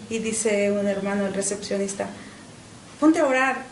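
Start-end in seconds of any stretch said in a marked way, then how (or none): 3.0-3.6 gruff command, a bit louder and higher; harsh order. Retold or imitated. Church receptionist rudely orders the teen to pray, harsh. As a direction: bark the order like a stern usher. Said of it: "de una manera así drástica".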